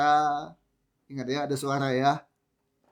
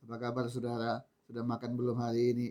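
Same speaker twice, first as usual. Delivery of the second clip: softer monotone robot greeting; 4 semitones lower, 6 dB quieter than usual. Shown as a demonstration. Pastor showing congregation speech without melody, robotic monotone. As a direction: read it like a machine, no melody. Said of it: "Itu robot, kan?".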